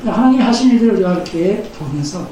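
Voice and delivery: ordinary talk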